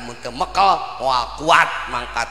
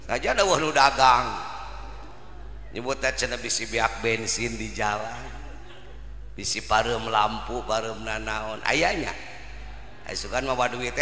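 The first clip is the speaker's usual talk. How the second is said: usual speaking voice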